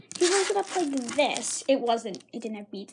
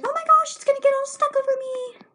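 loud, high-pitched imitated panic; mock alarm; 14 semitones higher, 8 dB louder than usual. Girl with slime round her neck to teacher, high loud mock panic.

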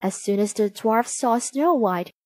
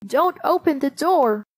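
high, emphatic warning; dwarfs in unison; 5 semitones higher than usual. A narrator's reading. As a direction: instruct her firmly as the little dwarfs. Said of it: "they all said together".

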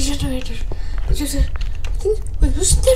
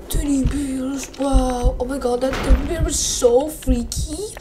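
whisper; 5 semitones lower, 5 dB quieter than usual. Real, not acted. Whispering at a creepy teddy bear.

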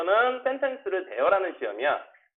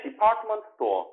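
quick, run together as one phrase; 3 semitones higher than usual. Shown as a demonstration. Teacher models for students to repeat, quickly. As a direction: say it at natural speed in one go. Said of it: "빨리 할게".

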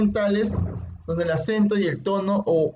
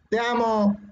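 higher, emotional demo "Te amo"; excited; 4 semitones higher, slower than usual. Shown as a demonstration. Teacher demonstrating emotion in intonation, excited. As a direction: say it with raised pitch and emotion.

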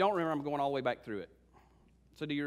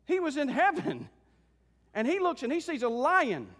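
driving, emphatic sermon delivery; rally the congregation with conviction; fervent preaching; 7 semitones higher, 4 dB louder than usual. Acted. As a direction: preach it with rising fervor.

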